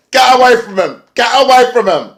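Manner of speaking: high, loud shouted plea; imitated frantic yell. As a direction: yell it like a wrestler warning someone off. Retells wrestler yelling at another.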